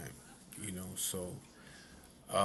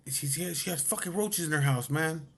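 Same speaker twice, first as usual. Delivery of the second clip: stammering, higher-pitched complaint; imitated agitated protest; 5 semitones higher than usual. Friend complaining about roaches in her house, mock agitation. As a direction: mimic a worked-up friend spluttering. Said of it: "Just fucking lower your voice".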